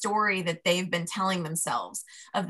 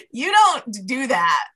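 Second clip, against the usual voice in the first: scolding; 4 semitones higher, 5 dB louder, much slower than usual. Retold or imitated. Refusing the inner voice.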